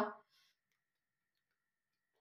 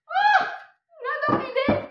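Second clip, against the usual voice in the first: excited; 7 dB louder than usual. Real, not acted. Delighted at the card drawn.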